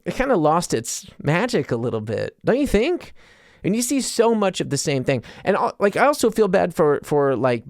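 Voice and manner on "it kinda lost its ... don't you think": jaded viewer. Retold or imitated. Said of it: "you're like".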